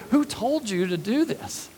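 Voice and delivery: high-pitched indignant questioning, lightly imitated; mock upset. Officials questioning the healed man, mock upset. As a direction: question him like an offended official, played lightly. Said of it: "they're all upset about that".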